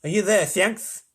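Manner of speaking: slow, lisping official voice; slow voice of authority; rasping President. A narrator's reading. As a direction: summon him slowly, with a rasp. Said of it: "It was deep and rasping".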